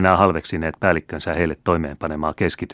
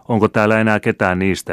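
higher, louder appeal to a crowd; ringing call; 4 semitones higher, 5 dB louder, faster than usual. A narrator's reading. Youth asks soldiers for his father's old comrades, ringing call. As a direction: call the question out over the troops. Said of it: "huusi hän äänellä, joka oli kaikuva".

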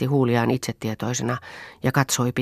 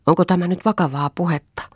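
sharp, raised, higher demand; the affronted maid bristles; angry maid; 6 semitones higher than usual. A narrator's reading. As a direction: Hilja angrily challenges her mistress. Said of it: "sanoi Hilja vihaisesti".

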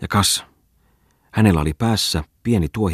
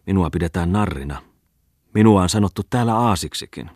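orating eccentric. Acted. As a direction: lecture them with mocking zeal. Bungman's speech to the crowd.

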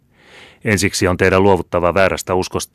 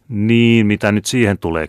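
higher and louder, rushing in; hurried cut-in; 4 semitones higher, 5 dB louder than usual. A narrator's reading. Captain cutting off Bertel to the Jesuit, hurriedly and loudly. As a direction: jump in before the lieutenant can answer. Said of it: "kiiruhti hän sanomaan".

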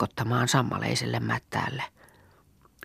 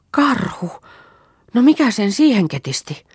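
startled cry; 9 semitones higher, 5 dB louder than usual. Acted. Vappu startled to see bear.

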